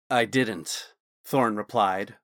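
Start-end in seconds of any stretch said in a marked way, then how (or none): 0.1-0.9 firm finality. Acted. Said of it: "a firm finality to that line of questioning".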